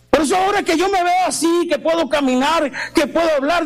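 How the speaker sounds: lifted, insistent testimony; impassioned preaching. Real, not acted. Healed preacher declaring he cannot keep silent, impassioned. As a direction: pile up the rhetorical questions with fervour.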